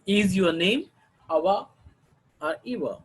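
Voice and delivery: "name" rising, "Eva" falling after a pause; choice question. Shown as a demonstration. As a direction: offer two names, pausing before "or Eva" and dropping "Eva". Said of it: "first tone group may have the rising tone".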